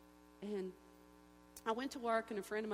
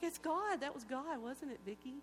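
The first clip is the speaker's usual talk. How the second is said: excited; 4 semitones higher than usual. Retold or imitated. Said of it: "he's all excited".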